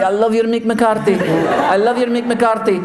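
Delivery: very high, gushing manager; imitated accented fan, delighted; Jose Mourinho. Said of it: "You listen to the Mick McCarthy".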